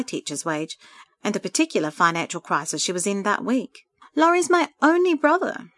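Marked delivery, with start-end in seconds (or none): 4.1-5.7 understated sob, high and louder; a tearful plea, pitched well up; sobbing, as narrated. A narrator's reading. Sandra confides in her friend about her brother, mildly sobbing. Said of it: "she sobbed as the tears continued".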